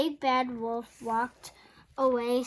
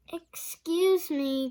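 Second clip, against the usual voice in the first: slow, sweet, raised call; sweetly; 5 semitones higher, 5 dB louder, slower than usual. A narrator's reading. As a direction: call politely at the door. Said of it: "called sweetly".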